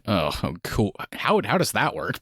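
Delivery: low, unimpressed feigned interest; sarcastic, soft-voiced reaction; mock underwhelmed. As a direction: feign interest, then question it. Sarcastic reaction to lame plot.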